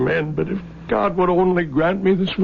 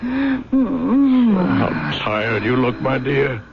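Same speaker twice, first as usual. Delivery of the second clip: tearful; 3 semitones lower, much slower than usual. Acted. Husband at dying wife's bedside.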